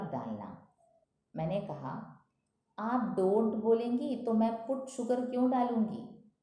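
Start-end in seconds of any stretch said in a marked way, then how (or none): 2.8-6.3 loud retort. Acted. Maid's loud mocking retort.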